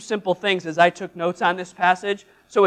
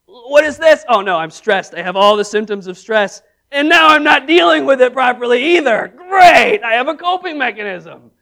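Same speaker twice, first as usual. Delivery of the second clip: mock panic; 6 dB louder than usual. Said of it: "you're like".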